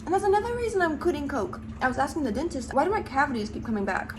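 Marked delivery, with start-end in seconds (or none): 2.7-4.2 talking through a mouthful; mouth full. Real, not acted. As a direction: speak with food in mouth. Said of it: "Sorry I'm eating with my mouth full".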